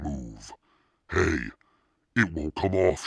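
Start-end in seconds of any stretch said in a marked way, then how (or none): 1.1-3.1 higher, louder rising panic; alarmed cry. A narrator's reading. Girl realising the mask is stuck, alarmed cry. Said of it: "she cried".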